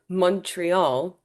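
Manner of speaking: Montreal said slowly, the local way; slow, deliberate local "Montreal"; local pronunciation. Shown as a demonstration. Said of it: "notice how I say that".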